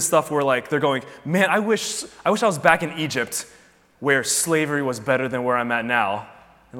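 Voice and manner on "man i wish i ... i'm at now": whiny grumbling. Retold or imitated. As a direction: whine like spoiled complainers. Grumbling people longing for Egypt.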